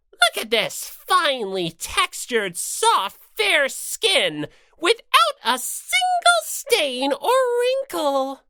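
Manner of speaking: Monokuma admiring his own fur. Acted. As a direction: savor your own beauty.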